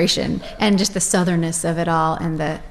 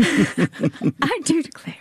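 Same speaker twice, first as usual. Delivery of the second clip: slow, higher Southern belle drawl; drawled Southern declare; 7 semitones higher, much slower than usual. Pretend. Singer answers the host with a slow Southern drawl. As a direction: stretch it like a Southern lady. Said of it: "playful echo of the title".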